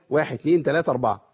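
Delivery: steady four-count for the elongation; counting the beats. Shown as a demonstration. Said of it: "وأنا بقرأ كده أعد كام".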